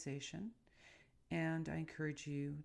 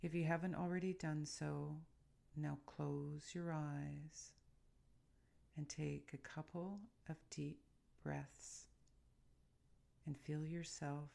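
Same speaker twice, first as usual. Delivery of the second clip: guided meditation. Real, not acted. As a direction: ease the listener gently into calm, softening toward each phrase end.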